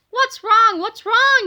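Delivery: high, loud urgent shout; yell. A narrator's reading. Mister Krupp shouts at Kipper as he runs up, urgent yell. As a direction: demand an answer, barking. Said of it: "yelled Mister Krupp".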